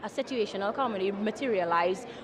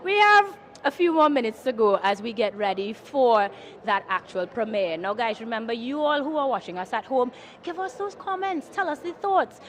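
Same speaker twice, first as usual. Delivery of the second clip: bubbly red carpet host; gushing red carpet chatter. Acted. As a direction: gush like an entertainment presenter. Host addresses viewers and guests.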